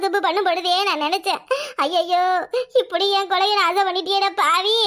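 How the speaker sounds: comic mock wailing with laughs; overplayed weepy grumble; hammed-up lament. Sister-in-law lamenting the son's marriage, hammed-up mock wail.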